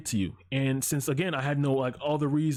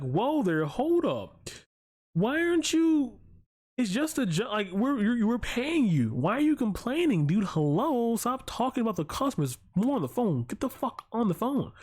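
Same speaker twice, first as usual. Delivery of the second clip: mocking high-pitched boss; 7 semitones higher than usual. Boss scolding, voiced in story.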